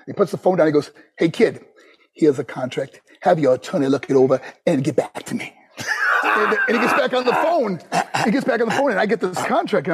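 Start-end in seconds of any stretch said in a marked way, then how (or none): 1.2-5.5 lightly voiced boss, lower in pitch; a touch of brusque boss talk; imitating a boss. Boss hands young wrestler his contract, lightly imitated low voice.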